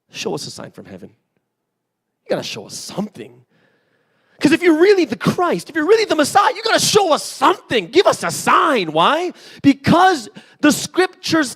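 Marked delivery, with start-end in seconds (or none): 0.1-3.4 sly challenge. Acted. Pharisees challenging Jesus. 4.4-8.9 higher and louder, insistent shout; loud demand. Acted. Pharisees shouting at Jesus to give them a sign.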